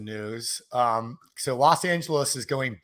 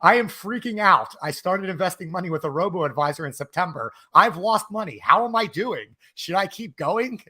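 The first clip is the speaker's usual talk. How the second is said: mock reread of panicked comment; 3 semitones higher than usual. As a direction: read the scared comment back to tease Chris. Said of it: "Let me repeat the line for you".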